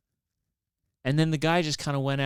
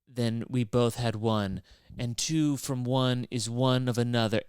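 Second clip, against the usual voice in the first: mock poetic. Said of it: "super artistic and poetic".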